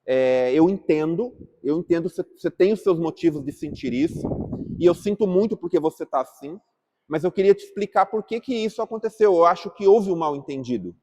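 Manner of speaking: calm empathetic reply. Shown as a demonstration. Teacher models calming an upset woman, calm and understanding. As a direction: soothe an upset person before explaining. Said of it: "primeiro eu falo".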